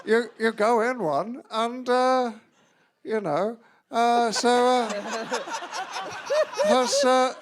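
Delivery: Josh Widdicombe impression. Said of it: "Your Widdicombe impression is starting to sound like a drunk Alan Partridge".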